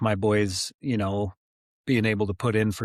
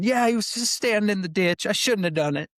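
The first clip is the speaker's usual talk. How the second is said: put-on shaky kid; 11 semitones higher than usual. Scared kid's reply.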